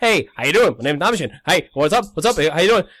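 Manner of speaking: very fast, rattled-off, rapid-fire babble. Teasing a friend about moving to japan, the speaker imitates him: imitating a fast-talking friend. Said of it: "he talks so fast".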